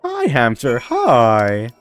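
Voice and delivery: put-on Makarov-style Russian accent greeting. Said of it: "You like that voice? That was the Makarov voice".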